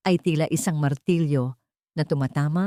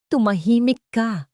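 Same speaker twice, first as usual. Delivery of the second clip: snapping hush; 5 semitones higher, 3 dB louder than usual. A narrator's reading. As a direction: cut her off hard. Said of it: "singhal ni Lakan". (singhal na pabulong na utos)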